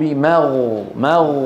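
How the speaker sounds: مغ with غ held, no bounce; correct still Ghain. Shown as a demonstration. Teacher correcting the mistake for students, unbounced غ. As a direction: let the غ of مغ flow without release. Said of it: "انتبهتوا؟".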